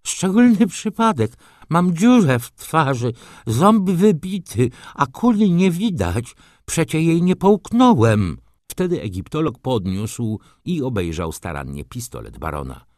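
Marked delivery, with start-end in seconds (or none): 0.1-8.4 loud, high-pitched squawking baron; screechy voice. A narrator's reading. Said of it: "mówił wrzaskliwym głosem". (wrzaskliwy, wysoki głos)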